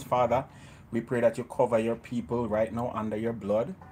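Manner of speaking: earnest spoken prayer. Acted. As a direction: pray over the viewers calmly. Leads a closing prayer.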